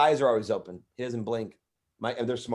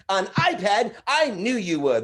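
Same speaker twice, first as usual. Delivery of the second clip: elf Chip; 8 semitones higher, 4 dB louder, slower than usual. Retold or imitated. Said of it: "He'd be like".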